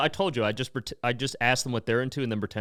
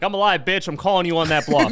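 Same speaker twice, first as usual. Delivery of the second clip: a touch louder and higher taunt; mock gotcha; 4 semitones higher, 4 dB louder than usual. Man to a girl who mourned him, taunting. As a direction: call out the fake mourner. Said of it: "you're like".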